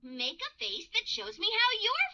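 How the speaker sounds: cheerful owl hoot into bouncy talk; sing-song happiness for little children; happy. Acted. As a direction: play a happy cartoon owl. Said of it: "I'm feeling happy".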